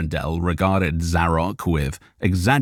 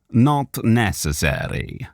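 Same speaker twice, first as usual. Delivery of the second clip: booming warrior; 4 semitones higher, slower than usual. Acted. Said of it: "thundered a voice".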